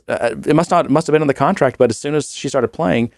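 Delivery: ordinary talk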